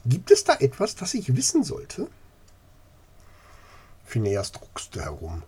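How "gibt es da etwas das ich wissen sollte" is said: put-on prim old lady demanding an answer; more formal. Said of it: "etwas förmlicher zu Phineas gewandt".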